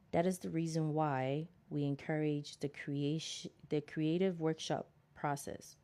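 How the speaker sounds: measured, deliberate book reading; reading aloud. Acted. Reading self-help advice to listeners, measured read-aloud. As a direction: read it out in careful phrases.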